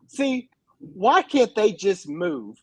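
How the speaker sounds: imitating a frustrated dad, slow; slow, drawn-out complaint as a fed-up viewer. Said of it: "he'll get so frustrated".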